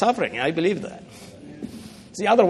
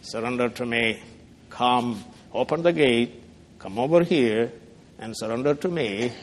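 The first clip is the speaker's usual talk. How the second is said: Satan's demand; 5 semitones lower, 4 dB quieter than usual. Retold or imitated. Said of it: "And he says".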